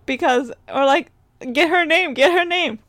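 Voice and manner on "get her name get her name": urgent prompting. Acted. Acting out urge to report attendant.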